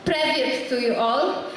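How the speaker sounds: slow Russian greeting; Russian accent. Acted. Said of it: "Sasha the Russian".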